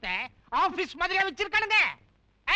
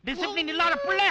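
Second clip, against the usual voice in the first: angry scolding; 2 semitones higher than usual. Acted. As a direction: tear into him like a strict military dad. Father berates son angrily. (கோபமான திட்டல்)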